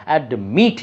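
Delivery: অ্যাডমিট with the weight on MIT; stress on last syllable. Shown as a demonstration. Teacher recalling the stressed example, অ্যাডমিট stressed on MIT. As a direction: push the second syllable, ad-MIT. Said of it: "যেমন বলেছিলাম".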